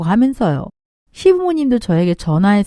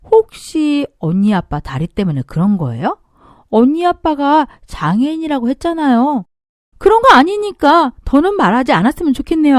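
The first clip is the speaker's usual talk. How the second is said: sneering sister-in-law; 3 semitones higher than usual. Acted. Sister-in-law taunts, narrator bristles.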